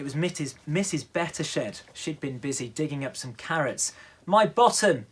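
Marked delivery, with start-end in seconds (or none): 4.2-5.1 loud, high indignant yell; shouting. Acted. Neighbour yells after the ball hits her, loud and high. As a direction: yell it out in outrage. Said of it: "she shouted".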